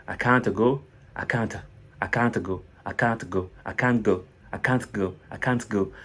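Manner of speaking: "can't" from sounded "kaan-te" toward a lost T; CAN'T, T gradually dropped. Shown as a demonstration. Teacher drilling step by step, T of "can't" fading away. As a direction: repeat "can't", shedding the final T bit by bit. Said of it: "vous enlevez le T au fur et à mesure".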